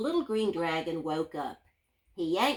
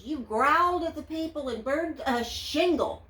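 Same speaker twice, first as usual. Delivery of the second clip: higher princess voice, scolding; 5 semitones higher than usual. Acted. Princess scolding the dragon, high and dismayed. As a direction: list his misdeeds like a dismayed princess. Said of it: "said the princess".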